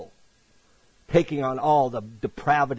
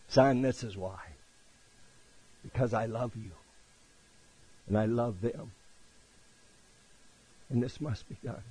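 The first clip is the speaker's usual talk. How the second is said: tender hushed answer; 2 semitones lower, 7 dB quieter than usual. Retold or imitated. Preacher voicing God answering his Son on the cross, tender and hushed. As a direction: let each phrase settle quietly.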